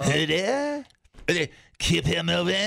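badly faked French accent. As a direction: mangle it like a Frenchman visiting Wisconsin. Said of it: "French version".

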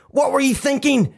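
high-pitched scolding mum; angry bark. Acted. Furious mum confronting her son, high angry bark. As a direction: bark it as an exasperated telling-off. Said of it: "she barked".

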